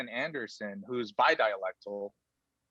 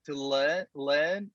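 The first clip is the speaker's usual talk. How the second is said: Australian accent attempt. Shown as a demonstration. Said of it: "can I do one".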